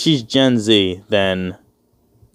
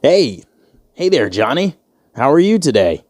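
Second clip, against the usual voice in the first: higher-pitched, over-friendly white-guy greeting; mock white voice; 3 semitones higher than usual. Man working on being white greets Johnny, mock white voice. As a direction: put on a chipper, square white-guy voice. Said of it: "You gotta work on being white".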